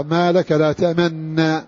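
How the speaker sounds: تأمنا with one doubled nun, no rounding; تأمنّا بالإدغام المحض; idgham with shadda. Shown as a demonstration. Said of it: "قرأ هكذا".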